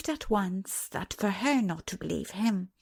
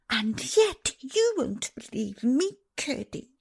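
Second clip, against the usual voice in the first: put-on a girl near tears, pitch pushed higher; fairly crying; 5 semitones higher than usual. A narrator's reading. Princess pleads with Curdie, close to crying. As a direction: plead through rising tears of vexation. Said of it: "now fairly crying with vexation".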